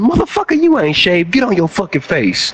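high, yelling drill sergeant. Retold or imitated. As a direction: bark orders down the line. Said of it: "my drill sergeant".

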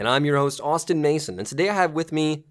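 hammed-up show opener; podcast host intro. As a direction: announce the show and guest with big energy.

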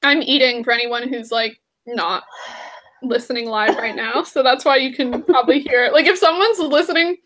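talking while chewing; words round a bite of food; mouth full. Real, not acted. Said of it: "I'm eating ... hear me, like, chewing".

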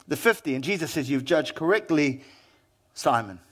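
a patient teacher telling a parable; a hint of Jesus speaking gently and low; lightly voiced Jesus. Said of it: "And Jesus said this, he said".

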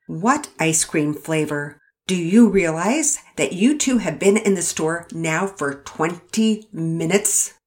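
slow, stern rebuke. Acted. Mother scolding the kids.

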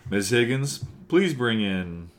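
evil cartoon German accent. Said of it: "evil cartoon German".

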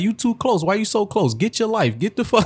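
mimicking the New York woman yelling in traffic; mock New York rant. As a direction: ham up her yelling at the driver behind. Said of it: "she was like".

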